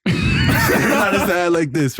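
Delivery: slow, laughing through the words; cracking up while showing his hand. Real, not acted. Laughing as he tells friends about the teacher's hand.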